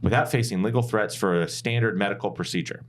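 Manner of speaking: lightly high, indignant senator; a hint of an outraged senator; indignant Karen senator voice. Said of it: "my best, uh, angry, indignant Karen senator voice".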